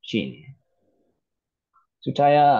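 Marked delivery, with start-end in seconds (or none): 2.0-2.5 a name called out higher, as if across a shop; calling out a name. Retold or imitated. A man calls his friend's name at the shop door. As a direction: call his name as you walk through the doors. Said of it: "I call out".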